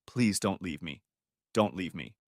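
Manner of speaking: understated tearful begging; sobbing plea. Acted. Wife begging her husband to stay, mildly sobbing. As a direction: softly beg him not to go, near tears. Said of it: "She sobbed even harder, spitting out the words".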